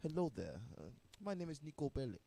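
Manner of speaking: put-on Niko Bellic's Russian accent. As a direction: Eastern European accent, game character. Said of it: "my Russian accent I can actually kinda do".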